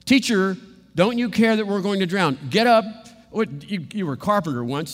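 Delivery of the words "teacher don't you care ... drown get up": frantic plea. Acted. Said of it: "What did they want him to do".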